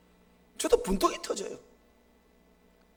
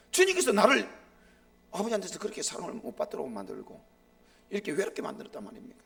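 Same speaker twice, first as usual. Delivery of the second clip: arguing; faster than usual. Retold or imitated. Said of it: "막 따지듯이 주님 앞에 물으니까".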